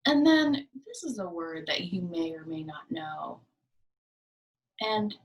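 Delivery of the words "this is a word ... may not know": hushed whisper, leaning in; soft secretive whisper. Shown as a demonstration.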